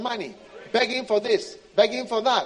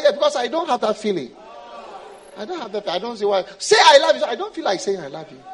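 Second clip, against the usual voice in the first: fast, louder indifferent answer; cold God; 6 dB louder, faster than usual. Acted. God telling the believer he feels no love, indifferent. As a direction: shrug the love off.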